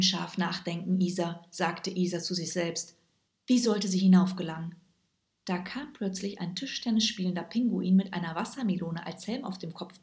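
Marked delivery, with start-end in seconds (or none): none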